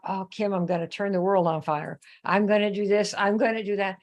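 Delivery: lightly imitating a big-talking new sign-up; mock boastful recruit. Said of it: "they are gonna tell you".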